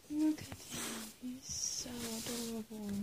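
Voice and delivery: soft slow whisper. Real, not acted. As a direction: breathe it out in a whisper. Whispering over sleeping pet.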